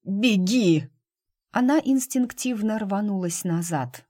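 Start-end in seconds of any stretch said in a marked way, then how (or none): 0.0-0.9 urgent warning. Acted. He warns her to flee.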